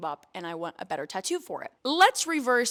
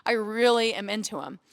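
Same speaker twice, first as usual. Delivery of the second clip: excited crush; 4 dB louder than usual. Retold or imitated. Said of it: "I was like".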